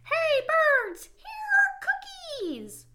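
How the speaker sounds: high, slow, loud calling; loud shout. Acted. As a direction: call out to the birds far away. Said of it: "He shouted in a loud voice".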